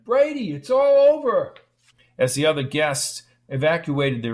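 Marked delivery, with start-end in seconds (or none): 0.0-1.5 high, loud pleading call. A narrator's reading. Lorna chasing Brady across the grass, high loud call. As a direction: shout after him to stop him.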